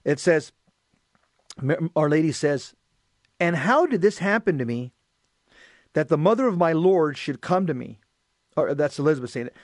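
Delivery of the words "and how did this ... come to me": measured, projected scripture reading; solemn read-aloud with pauses between phrases; gospel reading. Acted. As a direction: proclaim the reading to a congregation. Reads Elizabeth's words from gospel.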